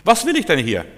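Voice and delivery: high, complaining mock whine; hammed-up grumbling of the ungrateful people; whining Israelites. Preacher mimics Israelites complaining in the promised land, high mock whine. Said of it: "die Israeliten im gelobten Land und sagen".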